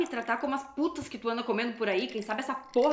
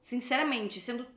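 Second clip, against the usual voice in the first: cold taunting; 2 semitones lower, 5 dB quieter than usual. Acted. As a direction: taunt him quietly to wound. Wife taunts husband quietly. (esposa provocando com desprezo baixinho)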